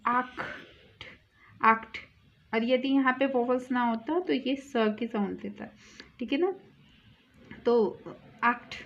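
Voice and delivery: आक्ट with a rasping kh; German acht. Shown as a demonstration. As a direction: say आक्ट with a throaty ch. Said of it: "इसको ख बोलेंगे". ("ख" की आवाज़ वाला आक्ट)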